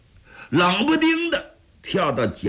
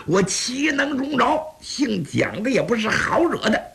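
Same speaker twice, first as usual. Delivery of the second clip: furious inner rant; 3 semitones higher than usual. Acted. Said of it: "蒋昭这火大的".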